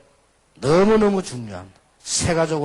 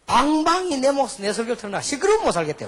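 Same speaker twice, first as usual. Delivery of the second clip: retold complaint; 9 semitones higher, 4 dB louder than usual. Retold complaint of exasperated pastor.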